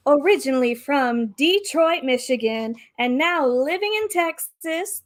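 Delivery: lightly rounded pageant host voice. Acted. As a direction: introduce like a pageant emcee. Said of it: "in her best M C voice".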